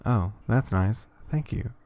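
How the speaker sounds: slow, dutiful thanks with no lift; unexcited. Acted. Daughter thanking mom, unexcited. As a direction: say it politely but without any joy. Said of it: "There isn't any excitement in her voice".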